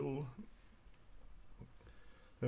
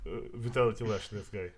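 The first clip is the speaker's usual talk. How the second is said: ordinary talk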